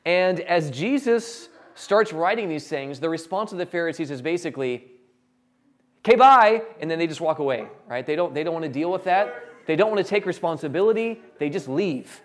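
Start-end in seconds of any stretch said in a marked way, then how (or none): 6.0-6.6 loud, high, quick brush-off; breezy escape. Acted. Pharisees leaving Jesus' challenge, loud breezy brush-off. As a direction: duck out before anyone asks.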